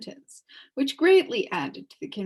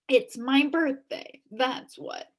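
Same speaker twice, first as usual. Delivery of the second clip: smug policeman; 5 semitones higher, slower than usual. Acted.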